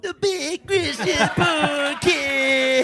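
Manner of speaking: "The Big Christian Podcast" high, slow and slurred; "The Big Christian Podcast" smeared into a high drawn-out call; mock slurred show name. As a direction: imitate the slur, stretching "The Big Christian Podcast". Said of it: "saying the words in a straight manner".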